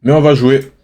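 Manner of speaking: chewing while talking; words round a bite of food; mouth full. Real, not acted. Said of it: "Désolé si je parle la bouche pleine". (en mâchant, la bouche pleine)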